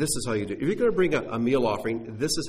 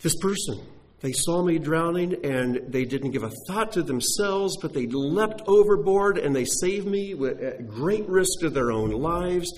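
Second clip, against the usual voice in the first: raised, earnest voice full of gratitude; grateful rescued person; 4 semitones higher than usual. Retold or imitated. Preacher voicing a rescued man praising his rescuer, heartfelt. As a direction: gush gratefully about the stranger who saved you. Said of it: "because you can say".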